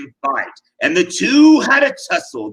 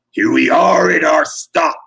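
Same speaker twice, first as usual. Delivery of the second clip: jeering; 4 dB louder than usual. Acted. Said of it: "the false Allfather jeered".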